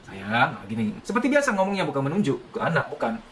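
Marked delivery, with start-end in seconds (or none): 0.1-1.0 tender parent. Shown as a demonstration. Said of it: "ketika ngomong sama anak".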